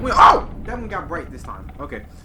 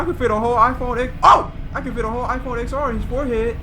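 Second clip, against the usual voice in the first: mocking commenters; 12 semitones higher, 8 dB louder, faster than usual. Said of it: "Y'all be like".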